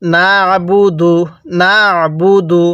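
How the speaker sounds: না আবুদু with the ayn squeezed in the throat; না আবুদু, a tight throat consonant after না; pressed ayn. Shown as a demonstration. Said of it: "গলার মধ্যে চাপ দিব".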